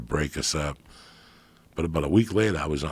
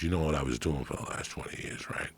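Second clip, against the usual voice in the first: whispered confidential question; hushed retelling; 6 dB quieter than usual. Retold or imitated. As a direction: lean in and whisper it.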